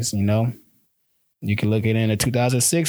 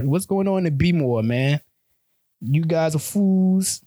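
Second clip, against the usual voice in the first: put-on higher, halting try at a Baltimore accent; fumbling Baltimore accent, pitched up; attempted Baltimore accent; 5 semitones higher, slower than usual. Vlogger trying a Baltimore accent on viewers, higher and slow. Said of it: "I don't even know how to do the accent".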